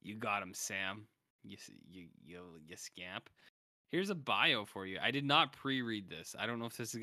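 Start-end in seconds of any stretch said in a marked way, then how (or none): 0.0-3.3 teasing. Retold or imitated. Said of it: "And I went".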